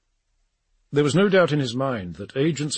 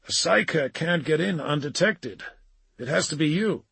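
higher-pitched character, pressing an argument; impatient John Grammaticus; 5 semitones higher than usual. A narrator's reading. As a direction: argue the point in a raised character voice. Narrator voices John arguing.

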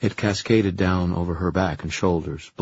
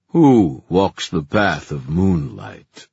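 booming voice; 7 dB louder, much slower than usual. Acted. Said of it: "Its voice a deep boom".

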